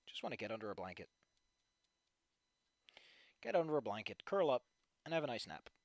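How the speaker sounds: low, soft, worn-out murmur; weary. Real, not acted. Tired streamer wishing for a blanket and nap, weary. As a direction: sink into it, longing for sleep. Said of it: "I'm tired in so many fucking ways".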